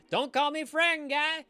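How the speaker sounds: high, loud mock-offended yell; mock indignant shout. Streamer hams up being offended at chat, mock indignant shout. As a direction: bark it back in a put-on voice.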